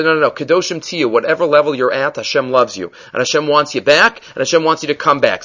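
soft and low, coaxing the listener back; gentle reassurance. Retold or imitated. Teacher voicing Hashem's message to a lost Jew, softly reassuring. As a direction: tell them softly they are loved and can come back.

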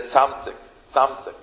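Tzamzik, Tzamzik with the v left out; mispronounced twenty. Retold or imitated. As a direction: Tzamzik said his simple way. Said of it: "that's how he would talk".

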